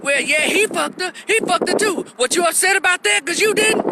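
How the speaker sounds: high-pitched mock comeback; imitated taunting woman. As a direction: mimic a girlfriend throwing it back, voice way up.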